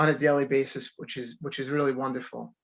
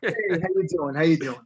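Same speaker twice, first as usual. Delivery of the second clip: laughing New York greeting; a playful New York "how you doing"; New York accent; 2 semitones higher than usual. Pretend. Guest greeting the host in a New York accent. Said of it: "give me a".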